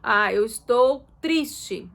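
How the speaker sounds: slow, drawn-out sad sigh; showing sadness. Shown as a demonstration. Mother showing her child she is sad, slow sigh. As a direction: let "triste" sag slowly. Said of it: "você mostra pro teu filho".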